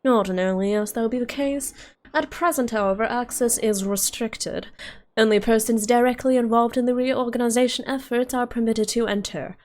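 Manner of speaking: pinched nasal custodian; prim, nasally official. Acted. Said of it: "Why did I give him a nasally voice?".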